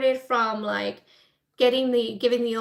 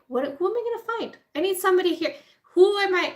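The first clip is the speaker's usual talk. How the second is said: higher, faster, climbing frantic scramble; a cornered man scrambling for help, getting louder; mock panic; 7 semitones higher, 3 dB louder, faster than usual. Nixon desperate for someone to fire the prosecutor, rising mock panic. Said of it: "And now he's like".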